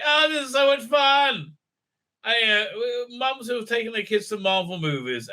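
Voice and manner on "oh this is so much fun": high, gushing mock fan; a mocking high fangirl squeal. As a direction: send up a gushing wine mum. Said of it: "people are like".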